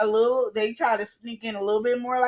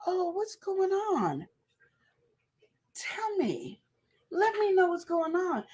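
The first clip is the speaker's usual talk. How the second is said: soft, sly, sugary concern, softer; sly other woman; 5 semitones higher, 4 dB quieter than usual. Acted. Coworker slithering up to the frustrated man, softly sly. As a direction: coo like the sweet-talking coworker moving in. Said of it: "she slithered on in there".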